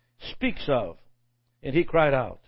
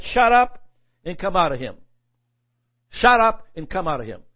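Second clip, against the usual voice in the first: firm rebuke; 4 dB louder than usual. Retold or imitated. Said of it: "In effect, he said".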